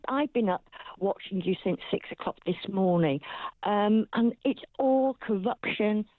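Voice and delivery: talking through clenched teeth; speaking with a wired jaw; jaw wired shut. Real, not acted. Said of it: "'cause I've been talking through my teeth".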